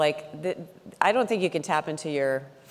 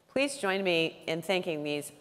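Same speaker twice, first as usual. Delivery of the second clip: rousing sign-off; 4 semitones higher, 6 dB louder, slower than usual. Real, not acted. Host closes panel, calls for applause.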